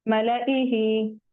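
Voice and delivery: मलाइही slowly, as "mala-ihi" with short "la"; measured मलाइही, alif unsounded. Shown as a demonstration. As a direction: keep the middle "la" of मलाइही short. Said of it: "इसको मला नहीं पढ़ेंगे".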